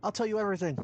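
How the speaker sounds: mock panicked plea. Voicing panicked character.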